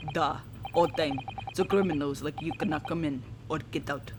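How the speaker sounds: a lightly voiced, self-important Russian guard; boastful Russian sailor. The guard showing off his post to visitors, in a mild Russian accent. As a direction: brag about the VIP deck in a Russian accent.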